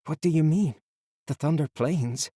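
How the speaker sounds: surprised anyone would ask; puzzled boy. A narrator's reading.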